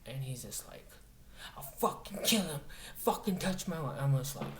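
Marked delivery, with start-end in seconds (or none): 1.6-4.0 higher-pitched imitation of an angry man, only half shouted; mock yelling threat. Retold hippie still threatening over his wife, mild mock yell. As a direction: mimic his ranting at moderate volume. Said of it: "he starts yelling and screaming".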